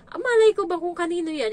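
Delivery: high, loud, fast comeback; defiant retort. Retold or imitated. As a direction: fire it back without losing. Retold quarrel, fighting back. (mabilis at malakas na pagsagot)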